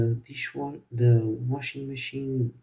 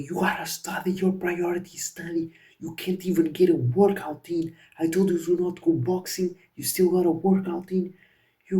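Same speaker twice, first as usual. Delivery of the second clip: higher-pitched hammed-up scolding father; mock angry dad; 4 semitones higher than usual. Dad forbidding the PC in his room, mock furious. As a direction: lecture like a furious strict dad. Dad's angry lecture retold.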